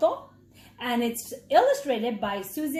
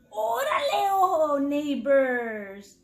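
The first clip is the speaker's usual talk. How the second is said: cool cat calling; 2 semitones higher, slower than usual. Acted. Cat calling out to new mouse neighbors. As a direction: sell it as a friendly hey. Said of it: "Chato purred".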